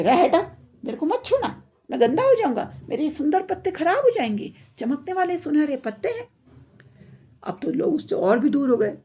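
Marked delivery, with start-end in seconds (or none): 0.0-6.3 high-pitched, fussy warning off; haughty. Acted. Vain golden tree tells others not to touch, haughty. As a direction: shoo them away, full of self-importance. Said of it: "घमंड में आ गया".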